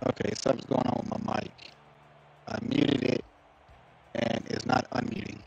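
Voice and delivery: glitchy robotic mic; robotic voice through a broken mic. Real, not acted. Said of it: "Everybody said that my mic sounds robotic".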